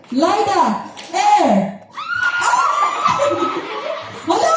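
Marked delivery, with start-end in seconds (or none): 2.4-4.6 sudden high gasp of surprise; shocked outcry, pitched up; surprised. Real, not acted. Surprise at a close round.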